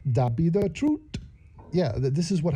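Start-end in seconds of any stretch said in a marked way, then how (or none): 0.1-1.0 lightly put-on Jamaican accent; a hint of hammed-up Jamaican patois; mock Jamaican accent. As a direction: imitate a Jamaican lilt for a joke. Mimics Jamaican-style speech from clip.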